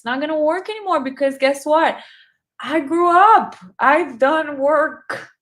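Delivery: proud, forceful claim; emphatic. Real, not acted. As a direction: declare it with full conviction. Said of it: "asserts her growth".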